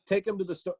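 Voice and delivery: exaggerated parent doing a sales job on the kid; parent in store. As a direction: play a parent herding a kid round the shoe store. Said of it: "he was also subversively telling parents".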